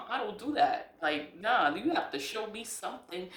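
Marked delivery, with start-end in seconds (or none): 0.1-0.9 laughing. Real, not acted. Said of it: "I, I don't do that".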